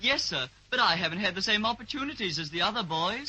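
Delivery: imitating Mister Snoodles. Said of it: "that ridiculous, nonsensical voice that Mister Snoodles uses".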